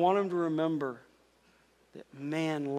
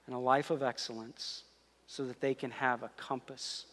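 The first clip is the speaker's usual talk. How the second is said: closing prayer. Real, not acted. Pastor praying for parents at sermon's end, earnest. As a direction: lead the room in heartfelt prayer, hushed by the end.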